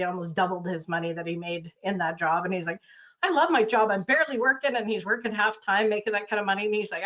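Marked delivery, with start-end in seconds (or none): 3.2-4.7 higher, louder, delighted; imitating a thrilled client; mock happy enthusiasm. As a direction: gush about the new job.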